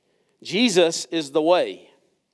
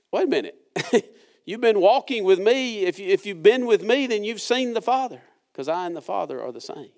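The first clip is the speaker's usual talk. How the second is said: laughing, higher voice as Jesus chides; amused Jesus; 5 semitones higher than usual. Retold or imitated. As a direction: chuckle through the gentle rebuke. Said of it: "And Jesus says".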